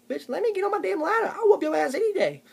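high, loud, strained tough talk; squeaky threat. Acted. Short man yelling up at Tony, high and loud. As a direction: reach up and threaten the giant.

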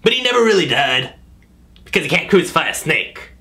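grand storyteller, slowed for effect; epic fantasy narrator. Acted. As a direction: tell it like an ancient myth. Legend told over music.

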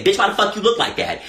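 quick, sharp clapback; sassy retort to a shirt comment; sassy comeback. Retold or imitated. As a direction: fire it straight back at them. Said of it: "Somebody said".

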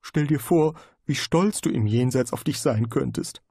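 a lightly voiced nagging conscience; a hint of a guilty inner voice. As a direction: speak as the inner voice, reproachful.

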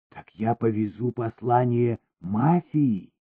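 plain reading voice

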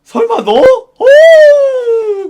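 mock shock.

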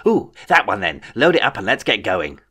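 petulant young overlord, lightly voiced; a hint of a spoiled king; childish king voice.

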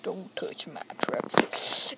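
slow, drawn-out creepy whisper; kid's creepy catchphrase voice. Shown as a demonstration. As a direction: breathe it out slow and menacing. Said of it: "It's my version of".

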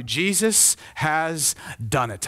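"Jesus has done it", each word slow and separate; "Jesus has done it" as a slow, weighty statement; emphatic declaration. Real, not acted. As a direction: stretch "Jesus has done it" with pauses between words. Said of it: "I'm telling you".

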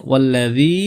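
ওয়াল্লাযী with the final long ee stretched; one-alif elongation. Shown as a demonstration. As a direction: hold the last vowel of ওয়াল্লাযী for one beat. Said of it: "এক আলিফ টানতে হবে".

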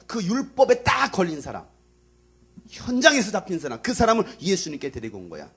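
high, insistent sermon voice; forceful preaching. Real, not acted. Preacher telling how the woman was brought to Jesus, forceful. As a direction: punch the key words.

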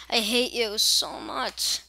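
loud, drawn-out gamer rage; frustrated outburst. Real, not acted. Gamer to the game after failing, frustrated outburst. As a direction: lean loudly and slowly on each word.

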